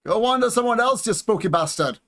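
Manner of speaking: hammed-up Scots; scuffed Scottish accent. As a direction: tell them off in a bad Scottish accent. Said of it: "that was me scuffed Scottish accent".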